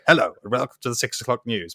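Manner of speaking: lightly put-on boyish newsreader; mock newsreader with a hint of prepubescent silliness; silly prepubescent voice. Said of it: "in a sort of silly prepubescent voice".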